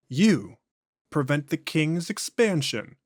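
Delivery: slow, drawn-out otherworldly voice; an ancient thing speaking through a man; eerie, unhurried entity; possessed alien voice. Acted. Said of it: "voice and inflections are noticeably different".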